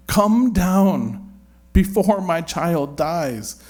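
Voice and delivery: loud, pleading, drawn-out plea; urgent plea. Acted. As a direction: beg him to come before it's too late. Official begging Jesus urgently.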